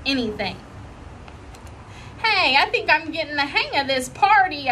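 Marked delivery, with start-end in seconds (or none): 2.2-4.7 a touch of happy pride. Acted. Junie pleased she broke nothing, mildly happy. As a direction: say it pleased with yourself. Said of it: "very happy".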